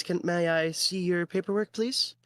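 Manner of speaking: high, polite female voice; woman clerk. Acted. Clerk asking the new arrival for paperwork, high female voice. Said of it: "she goes, she holds out her hands".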